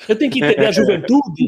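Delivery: uncle voice. Pretend. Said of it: "Esse é meu personagem tiozão".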